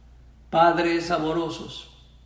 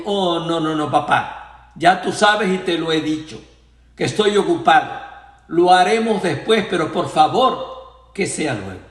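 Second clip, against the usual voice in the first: impatient refusal; 6 dB louder than usual. Retold or imitated. Grown son impatiently refuses father.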